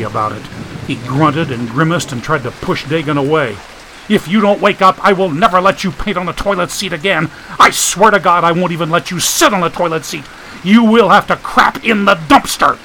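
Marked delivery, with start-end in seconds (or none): 4.1-12.8 angry. Acted. Threatening groggy friend.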